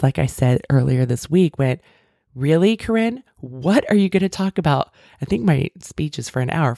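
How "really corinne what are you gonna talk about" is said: mocking inner critic. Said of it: "it's that voice".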